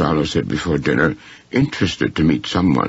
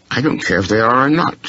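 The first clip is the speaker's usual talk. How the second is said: fast, higher glowering retort; 7 semitones higher, faster than usual. A narrator's reading. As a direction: throw it back at Henry, quick and sullen. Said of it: "glowering at Henry".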